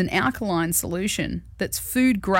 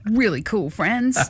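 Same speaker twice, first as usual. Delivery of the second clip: slow, drawn-out sarcasm; sarcastic; 3 semitones higher than usual. Real, not acted. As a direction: lay the sarcasm on slowly. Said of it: "I say that with all the sarcasm intended".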